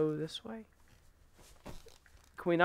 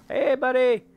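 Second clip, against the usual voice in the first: loud, high playful taunt; 8 semitones higher, 6 dB louder than usual. Pretend. Player enticing a monster over here, taunting. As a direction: call out to provoke it.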